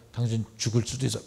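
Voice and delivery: fast, bluntly stated warning; spelling it out with no cushioning; blunt and direct. Shown as a demonstration. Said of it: "막 이렇게 단도직입적으로 얘기는 안 하지만".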